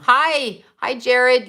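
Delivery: high, loud hello; bright greeting. Real, not acted. Greeting a viewer who just joined, bright and high.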